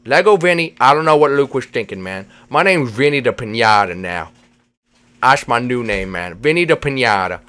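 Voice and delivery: slurred cartoon buddy. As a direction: play a goofy pal with slushy consonants. Voices Vinny character.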